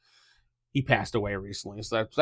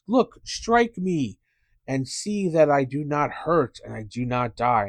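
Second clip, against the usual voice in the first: goblin preacher; 4 semitones higher, slower than usual. Acted.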